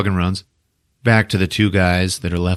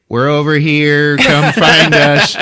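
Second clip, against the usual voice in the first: slow, high, drawn-out call; sing-out mock holler, getting louder; calling for rescue; 5 semitones higher, 5 dB louder, slower than usual. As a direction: call out as if to distant searchers. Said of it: "He was like".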